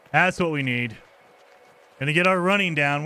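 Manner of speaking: normal talking voice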